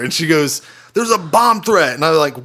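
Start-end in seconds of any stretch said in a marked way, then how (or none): 0.9-1.9 high, slow, drawn-out mock alarm; imitating panicked coworker. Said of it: "this is how she approaches the situation".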